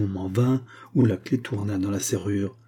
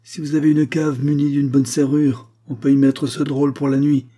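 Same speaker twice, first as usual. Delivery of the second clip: a louder, higher stern officer's voice, lightly played; stern Russian major; 3 semitones higher, 4 dB louder than usual. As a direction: lay down terms like a haughty officer. Russian major's gruff order. (officier russe hautain, voix un peu plus forte)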